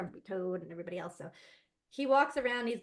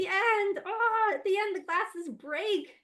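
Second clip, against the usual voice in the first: dramatic buildup; 9 semitones higher, 6 dB louder, slower than usual. Acted.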